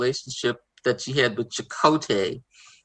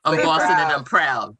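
Boston accent; 4 dB louder than usual. Shown as a demonstration. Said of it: "Say it loud".

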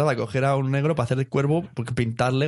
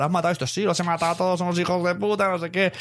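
put-on defiant girl confession; 6 semitones higher than usual. Hit Girl confessing in story.

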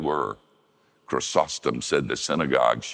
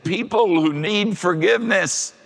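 Clinton quote; 6 dB louder than usual. Retold or imitated. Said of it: "Bill Clinton, when he was asked".

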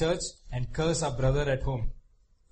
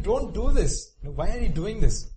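Tamar pleading; 5 semitones higher, 4 dB louder than usual. Retold or imitated. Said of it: "She's probably crying".

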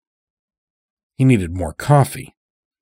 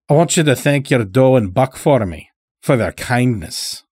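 put-on higher-pitched folksy old-timer, grateful; lightly voiced old farmer; 4 semitones higher than usual. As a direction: lightly play a rustic old captive giving thanks. Old captive farmer speaks in story.

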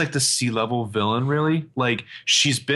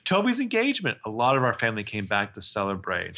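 put-on Southern accent; 2 semitones lower than usual. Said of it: "like, a Southern accent for some reason".

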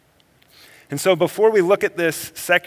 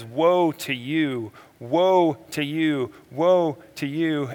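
drawn-out, grieving woe; Jesus pleading with the Pharisees, slow and grieving; slower than usual. Retold or imitated. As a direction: plead each woe slowly. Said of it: "Jesus was pleading with the Pharisees".

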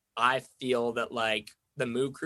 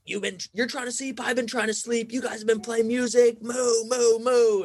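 much higher mock rant, louder into the moos; imitating aggressive guy; 11 semitones higher, 4 dB louder than usual. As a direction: play the ranting stranger, building to loud moos. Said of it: "he got really aggressive and was like".

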